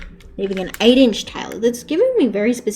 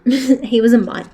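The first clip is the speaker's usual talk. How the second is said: louder, laughing "He was a mutt."; laughing repeat, stressing that the dog was a mutt; laughing punchline; 6 dB louder than usual. Real, not acted.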